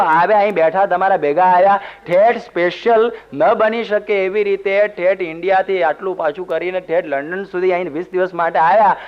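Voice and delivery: ordinary talk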